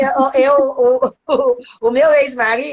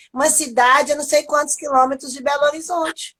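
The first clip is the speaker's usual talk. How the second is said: ordinary talk, nothing marked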